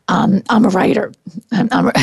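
raspy whisper as the voice gives out; voice cracking. Real, not acted. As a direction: voice cracks and breaks on the words. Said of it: "I have no voice right now".

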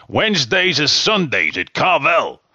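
lightly imitated ad slogan, slow; old commercial pitchman. Host quoting an ice cream ad, light pitchman imitation. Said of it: "Remember those big commercials?".

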